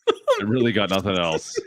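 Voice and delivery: slowed down, laughing resignation. Real, not acted. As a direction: drag it out while laughing. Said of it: "I got nothing else".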